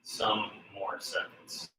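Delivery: breathless and quiet; panting between words; out of breath. Real, not acted. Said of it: "Let me catch my breath".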